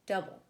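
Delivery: DOU-ble, first syllable of double stressed; trochaic stress. Shown as a demonstration. Teacher demonstrating a trochee, double stressed on its first syllable. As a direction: hit the start of double, let the end go light. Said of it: "stressed and then unstressed".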